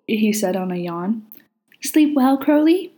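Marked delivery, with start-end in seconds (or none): 1.8-2.9 fond. A narrator's reading. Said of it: "his tone fond".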